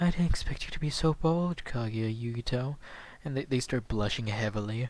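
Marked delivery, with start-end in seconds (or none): 0.0-2.8 low-key, mild way of talking. Speaker retells a quiet-voiced character's line: talking quietly. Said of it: "He's talking quietly".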